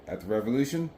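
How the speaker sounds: muffled, speaking through a helmet; talking inside a full-face helmet. Real, not acted. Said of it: "Sorry for the wind noise".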